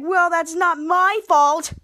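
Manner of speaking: indignant protest. Retold or imitated. Jilted friend answers the excuse, indignant protest. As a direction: act out an aggrieved protest, leaning on each word. Acted protest in retold quarrel.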